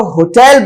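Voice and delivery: "होटल" ending in a full -el; English pronunciation. Shown as a demonstration. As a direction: say "होटल" as ho-TELL. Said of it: "होटल बोलते हुए देखोगे".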